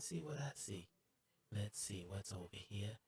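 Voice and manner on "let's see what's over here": normal talking voice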